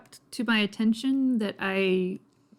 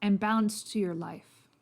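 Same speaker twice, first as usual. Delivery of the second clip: put-on Irish accent. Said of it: "I'm guessing he's more Irish".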